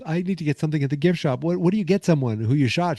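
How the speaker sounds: mock fretting. Laurie wondering about a gift for Artie, mock fretting.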